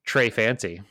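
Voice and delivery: put-on Trey Fancy in a hammy French accent; mock French accent. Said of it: "watched enough Fancy Nancy".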